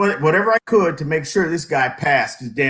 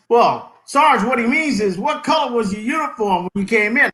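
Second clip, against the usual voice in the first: retold explaining; 6 semitones higher than usual. Second soldier explains the question.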